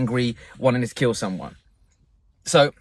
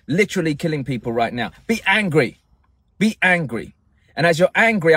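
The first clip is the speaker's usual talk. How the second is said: raised, pressing coaching voice urging anger; 2 semitones higher than usual. Acted. Coach urging listeners to feel anger at Putin, pressing voice. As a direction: push them to feel the anger.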